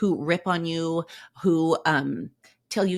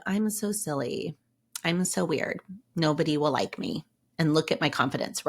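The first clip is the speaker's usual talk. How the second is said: "I'm so silly." said a little lower and deflated, like putting yourself down; mock downhearted; 3 semitones lower than usual. Shown as a demonstration. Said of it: "Instead of".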